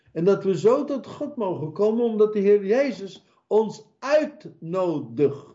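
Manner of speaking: high, urgent preaching voice. Acted. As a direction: preach it up with fervour. Preaching at full force.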